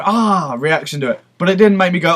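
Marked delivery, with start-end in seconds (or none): 0.0-0.5 imitated wince. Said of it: "I had the same".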